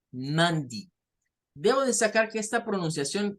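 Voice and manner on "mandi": "mandi" with short i; variant ending. Shown as a demonstration. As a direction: end on "di". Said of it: "hay personas que la pueden decir".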